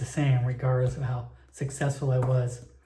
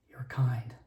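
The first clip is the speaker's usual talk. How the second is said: sly whispered aside from the bartender; 3 semitones lower, 7 dB quieter than usual. Acted. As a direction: drop to a knowing whisper on the last words.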